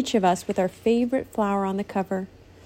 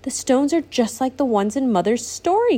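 excited exclamation; 4 semitones higher than usual. Acted. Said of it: "Courtney exclaimed".

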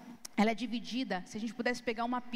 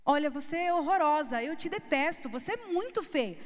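sweet-toned insult; 4 semitones higher, 5 dB louder than usual. Shown as a demonstration. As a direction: insult said as if a compliment. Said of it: "como se eu estivesse fazendo um elogio". (insulto dito com tom de elogio)

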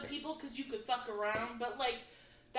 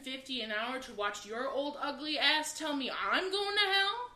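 laughing retort; 3 semitones higher, 7 dB louder than usual. Retold or imitated. Laughing at preacher's insult.

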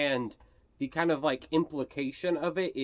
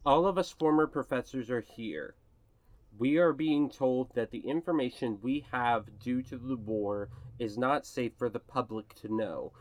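measured, lower reading of a secret note; note read aloud; 4 semitones lower than usual. Acted. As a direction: read out a grave warning, pausing before the last part. Game master reads a note aloud.

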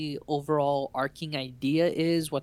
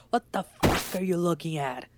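imitating a gruff brush-off, only slightly raised; mock yelling; 3 semitones higher than usual. Retelling how the trucker snapped at the player, mock yelling. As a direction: play an irritated trucker, half-hearted yell. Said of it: "he's yelling, like".

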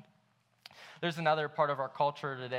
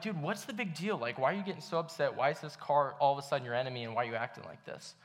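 retold frustration. Passenger questioning his friend's road rage, mildly frustrated. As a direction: imitate frustrated pleading, sinking as it runs on. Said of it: "I get super frustrated with him".

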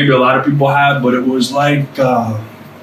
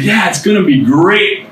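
put-on higher-pitched, composed agreement to a child; straight-faced reassurance; 6 semitones higher than usual. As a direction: answer a child as if all is well. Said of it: "with a straight face".

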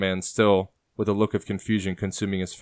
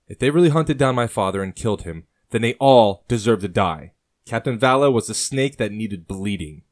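youthful vehemence, higher and louder; hot-headed young man, voice pushed up; 3 semitones higher, 6 dB louder than usual. A narrator's reading. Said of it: "Adahy says youthfully".

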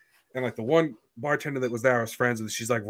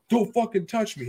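high-pitched imitated protest; mock indignant drunk; 11 semitones higher than usual. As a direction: imitate a drunk man objecting, voice raised high. Acting drunk guy's angry protest.

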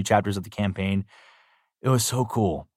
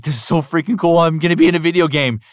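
thrilled and a bit higher, quick on the second line; excited; 6 semitones higher, 5 dB louder, faster than usual. Retold or imitated. New voice actor hearing his line is in the game, gushing. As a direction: gush like a kid who just got cast.

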